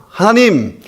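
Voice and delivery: high-pitched, slow, indignant demand; acted-out farmers' outraged challenge; angry protest. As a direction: take God to task, stretching the complaint. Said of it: "농부들이 하나님께 화가 나서 따지는 거예요".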